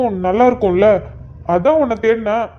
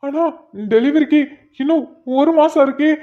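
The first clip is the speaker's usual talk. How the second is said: higher-pitched, panicked questioning; alarmed; 4 semitones higher than usual. Acted. Husband hears of pains a month early, alarmed. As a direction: question her in rising alarm.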